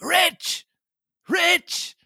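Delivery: put-on high, insistent old castaway; hotly insisting. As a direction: insist it hotly like a wild hermit. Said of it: "repeated the statement hotly".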